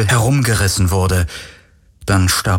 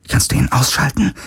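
higher, hushed urgent question; secretive half-whisper; 6 semitones higher than usual. A narrator's reading. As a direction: whisper it anxiously to an ally. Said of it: "flüsterte Kirai".

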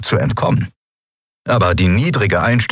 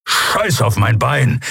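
wounded Kero brushes off Nelen's worry, slow and gruff; 4 semitones higher, slower than usual. A narrator's reading. Kero rejects worry, growling.

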